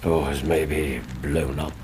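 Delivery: whispered aside. Acted. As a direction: breathe it out as a secret guess. Watson hints at a visitor.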